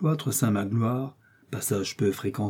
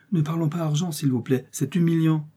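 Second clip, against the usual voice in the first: as if revolted; 6 semitones higher than usual. A narrator's reading. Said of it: "comme révolté".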